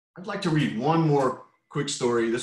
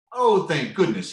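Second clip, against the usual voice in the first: relieved; 6 semitones higher, 7 dB louder than usual. A narrator's reading. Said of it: "he said".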